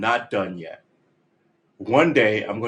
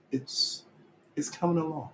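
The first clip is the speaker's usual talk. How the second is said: higher, pleading "coming along"; defensive insistence; 7 semitones higher, 8 dB quieter than usual. Acted. Defending the band's progress to viewers, pleading higher. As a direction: insist it's getting better, pitch up. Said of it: "Can I just say in my defense".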